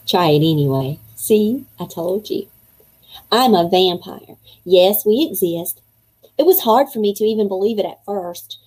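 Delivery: put-on reading a kid's diary aloud to young listeners; storybook read-aloud voice; story narration. A narrator's reading. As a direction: read it as the boy writing his diary. Reads chapter as boy narrator.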